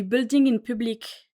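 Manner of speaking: English words in a French accent; French speaker's attempt at English; self-mocked English accent. Real, not acted. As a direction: say the English term with a thick-tongued French accent. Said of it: "avec mon super accent anglais".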